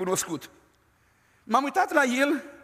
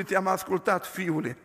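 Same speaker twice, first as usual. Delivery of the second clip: lower, fading mock answer from God; joking reply; 4 semitones lower than usual. Preacher retelling God's joking reply, low and light. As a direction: answer like a gentle joke, trailing off. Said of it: "Și el spune".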